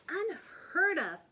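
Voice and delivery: high, loud, slow outraged protest; scandalised aunt objecting. A narrator's reading. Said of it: "protested Aunt Figgy".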